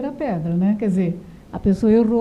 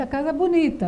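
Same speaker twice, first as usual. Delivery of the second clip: higher pitch, BONITA falling at the end; emotional intonation; 5 semitones higher, faster than usual. Shown as a demonstration. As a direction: lift the phrase, then let BONITA drop. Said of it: "uma entonação, uma emoção".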